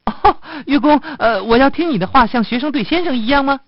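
high little rabbit voice; obedient rabbit. Acted. Rabbit promises to obey musician, obedient rabbit voice. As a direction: pipe it up high as a willing pupil. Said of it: "兔子回答说".

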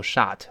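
"shut" mispronounced as "shot" with an open ah; wrong open vowel. Shown as a demonstration. Teacher reminding learners of the mistake, open-vowel "shot". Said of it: "注意不要读shut".

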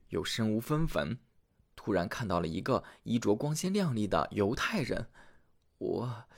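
soft, fearful tailor confessing; a lightly voiced guilty husband; hushed confession. Tailor confesses to his wife.

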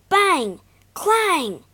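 high, loud bang and clang; loud crash words. A narrator's reading. Narrator shouting the crash of the chair on rocks. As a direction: belt out the crash like a sound effect.

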